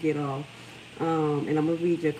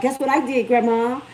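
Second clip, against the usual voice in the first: imitating her younger self; 7 semitones higher, 7 dB louder than usual. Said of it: "I'd be like".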